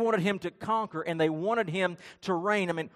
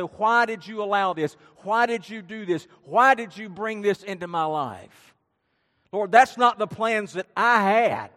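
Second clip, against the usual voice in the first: loud, acted protest to God; angry questioning; 2 semitones higher, 6 dB louder than usual. People fighting back at God, angry questioning. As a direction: hammer out each accusation, imitating indignation. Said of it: "we look at God and we're angry".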